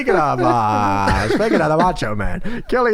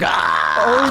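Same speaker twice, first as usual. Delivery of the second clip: retold yell; 5 semitones higher than usual. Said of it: "he's like".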